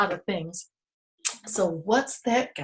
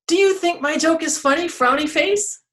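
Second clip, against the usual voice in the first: high, fast teasing tree voice; cheeky tree poking fun; 7 semitones higher, 4 dB louder than usual. Acted. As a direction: tease the frowny tree playfully. Teasing tree asks other tree.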